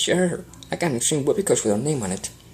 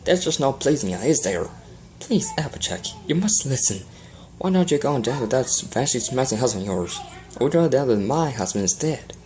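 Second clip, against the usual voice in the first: angry scolding. Acted. Applejack angrily scolds Rarity.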